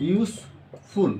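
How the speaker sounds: ইউজফুল drawn out very slowly, syllable by syllable; slow syllable-counting demo. Shown as a demonstration. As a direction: say ইউজফুল slowly so both beats are heard. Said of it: "ইউজফুল উচ্চারণটা হয়".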